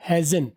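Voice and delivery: hasn't with the t dropped, said hazən; "hasn't" ending on n; weak hasn't. Shown as a demonstration. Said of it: "वीक में".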